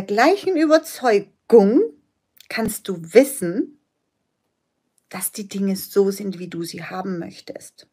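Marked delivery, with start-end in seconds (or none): 5.1-7.9 fading to a soft whisper. Acted. Coach telling the client how things can be, whispering. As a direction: hush it like a secret.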